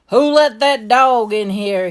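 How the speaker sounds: loud, slow Southern holler; shouting. A narrator's reading. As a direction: shout it as the outraged store manager. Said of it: "he kept shouting".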